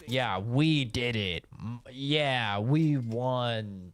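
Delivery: mock sports guy. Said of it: "crazy-ass sports guys".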